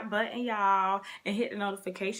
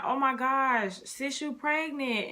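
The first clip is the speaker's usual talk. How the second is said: higher-pitched retold excitement; delighted discovery, lightly imitated; excited sister; 6 semitones higher than usual. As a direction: act out a sister's thrilled reaction. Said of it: "she was so happy and excited".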